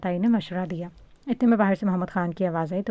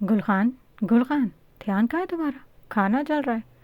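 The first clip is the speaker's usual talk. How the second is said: calling out; 5 semitones higher than usual. A narrator's reading. Aunt calls distracted woman in kitchen.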